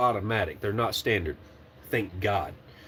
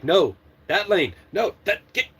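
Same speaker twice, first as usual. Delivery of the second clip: panicked laughing; 5 semitones higher than usual. Retold or imitated. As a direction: panicky laugh breaking through. Panicked trainer at wrong lane.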